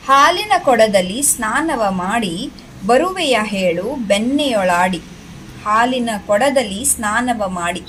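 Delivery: lilting, measured verse reading; poem recitation. Shown as a demonstration. Teacher reads rabbit poem to children, sing-song recitation. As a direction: recite it in rising and falling waves.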